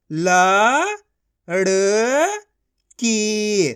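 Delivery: slow, each syllable of ल-ड़-की pulled apart; teacher sounding out a word. Shown as a demonstration. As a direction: sound out लड़की as ल, ड़, की with gaps. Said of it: "एक एक अक्षर का उच्चारण करके".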